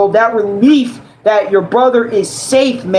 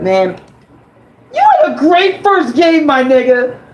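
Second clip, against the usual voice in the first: loud voice, higher pitch; 5 semitones higher than usual. Cheering a game character's first game, being loud. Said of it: "how loud I'm being in this video".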